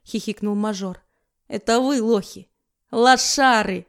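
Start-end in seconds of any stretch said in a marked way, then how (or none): 1.5-3.9 loud mocking jeer; taunting jeer. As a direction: sneer at them. Мажор насмехается. (издевательский выкрик)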